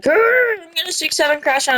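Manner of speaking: high fast hammed-up growling threat; mock growl. Kid voicing the mustard villain, hammed-up fast growl. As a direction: growl then rush the threat. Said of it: "And he's like".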